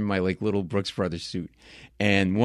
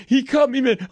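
high, loud mock-drunk wail; drunk man's cry; 5 dB louder than usual. Drunk victim complaining amid bar chaos, high mock cry. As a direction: imitate a hurt drunk crying out.

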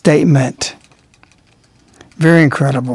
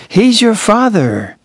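slow, higher and tender; tender quote; 5 semitones higher, much slower than usual. Retold or imitated. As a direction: say it like a loving reminder. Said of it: "She's saying".

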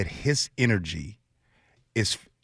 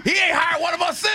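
mock shout; 5 dB louder, faster than usual. Joking Irish guy bit.

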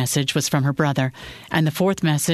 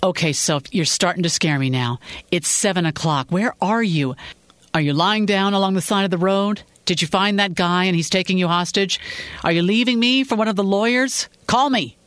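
anxious husband; 4 semitones higher than usual. Acted.

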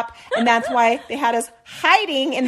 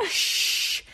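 breathy whispered shush; whispered shh; 4 dB quieter than usual. Retold or imitated. Woman silencing the girl on the floor, whispering. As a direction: whisper it to keep her quiet.

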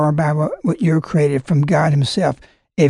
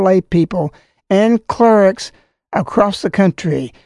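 formal letter reading; 3 semitones higher than usual. Acted. Reads bishop's letter aloud.

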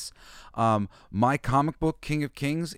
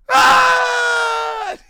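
very high, loud scream of a man thrown off; hammed-up shriek falling away; 12 dB louder than usual. Knight hurled off the bridge into the ditch, high loud scream. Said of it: "he gets thrown off".

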